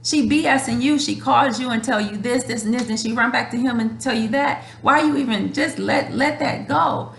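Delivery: mock a close friend nagging her to drop it; exasperated friend. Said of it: "I get dragged for people that's really close to me".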